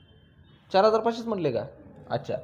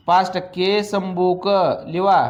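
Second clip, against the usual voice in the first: slow, drawn-out dictation; dictating; slower than usual. Real, not acted. Teacher dictating to students as they write, slowly. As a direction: stretch the words out for note-takers.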